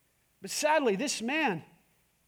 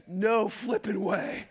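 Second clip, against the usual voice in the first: laughing refusal; slower than usual. Retold or imitated. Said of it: "And Rich goes".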